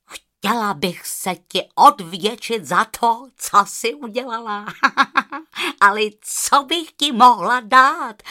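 put-on eager child offering a gift; little girl. Rozárka asks the goose what she can give, eager girl voice.

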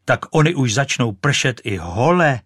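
the goose is hit by the falling stick; startled exclaim. Acted. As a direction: cry out as if struck. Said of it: "zvolala husa".

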